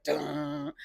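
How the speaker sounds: mimicked crash of keys; imitated piano clang. Drunk man leaned on the piano, imitated clang. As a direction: mouth the clunk of piano keys. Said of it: "leaned on the piano and was like".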